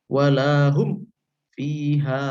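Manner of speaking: "Walahum" ending on a cleanly closed m before "fiha"; recited with a distinct mim, not nasalized; clear idhar. Shown as a demonstration. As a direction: close the lips fully on the m of "Walahum". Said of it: "Itulah yang disebut dengan idhar".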